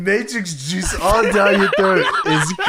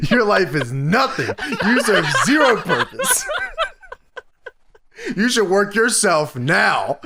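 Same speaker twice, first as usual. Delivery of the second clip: lightly put-on deliberate rant, amused. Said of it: "Low Tier Meltzer is out of control".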